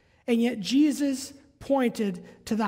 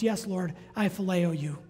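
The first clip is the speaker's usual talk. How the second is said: Peter's answer, lower and softer; quiet, defeated reply; 7 semitones lower, 5 dB quieter than usual. Retold or imitated. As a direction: let it sink, softer and lower. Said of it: "three times he responds".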